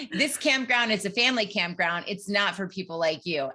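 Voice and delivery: lightly imitated Southern accent. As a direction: camp director with a touch of Southern. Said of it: "giving him a Southern accent".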